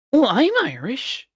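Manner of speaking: high, slow imitating an eager American; American accent imitation. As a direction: play the proud American tourist. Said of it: "this accent".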